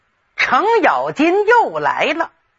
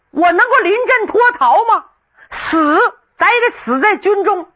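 raised, proud refusal to run; defiant outburst; 8 semitones higher than usual. Acted. Refusing to flee, he answers with a raised defiant cry.

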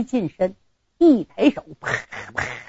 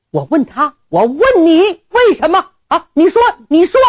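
high, loud, pressing questions; old general demanding an answer from the groom, loud; angry demand; 7 semitones higher, 3 dB louder than usual. Acted. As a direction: push him to answer.

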